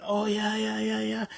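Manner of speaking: lightly mocking a boastful winner; mock braggadocious. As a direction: brush it off like a gloating winner. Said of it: "they're braggadocious".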